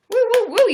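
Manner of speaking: high, loud triple woo; excited "woo-woo" cheer; celebratory whooping. Real, not acted. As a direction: whoop it up for the likes. Cheering viewers' likes.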